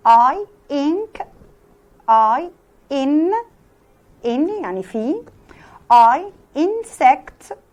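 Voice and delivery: teacher exaggerating the short i; short i demo. Shown as a demonstration. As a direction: stretch the mouth corners on a loud short i. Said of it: "بصوا الكورنرز بقي بتعمل ازاي".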